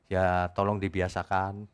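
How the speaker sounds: "tolong dibiasakan" said slowly through a chuckle; a teasing, laughing "tolong dibiasakan". Real, not acted. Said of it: "laughs after".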